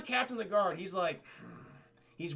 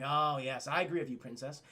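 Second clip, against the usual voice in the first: lower, mildly sycophantic wizard voice; lightly voiced fawning adviser, no real whisper; oily wizard; 5 semitones lower than usual. Wizard agreeing in the princess's ear, fawning. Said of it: "the wizard always whispering in her ear".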